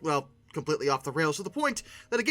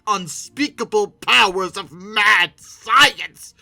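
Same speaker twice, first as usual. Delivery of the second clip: drawn-out, louder mad-scientist proclamation; 9 dB louder, much slower than usual. Acted. Host hams up cloning dinosaurs, booming mad-scientist voice. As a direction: stretch it out like a cartoon villain.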